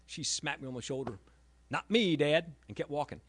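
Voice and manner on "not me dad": daughter's retort. Retold or imitated. Daughter quoted brushing him off.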